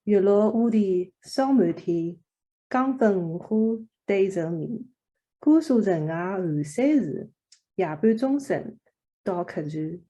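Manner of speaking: put-on reciting a childhood poem in dialect; recited in Shanghainese. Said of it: "she would recite in Shanghainese with her Yixing accent".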